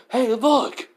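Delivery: high, loud alarmed shout. Acted. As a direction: call out sharply to the others. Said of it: "one of the guys who goes like".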